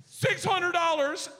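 high, loud, slow trembling bid; nervous kid bid. Retold or imitated. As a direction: force it out, scared and loud.

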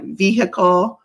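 "vehicle" drawn out as VEE-hi-kul; Southern vehicle. Shown as a demonstration. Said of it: "used to say".

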